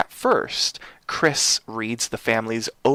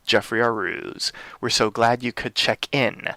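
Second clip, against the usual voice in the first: spooky horror host welcome; booming echoing villain monologue. Acted. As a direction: greet them like a haunted hotel owner.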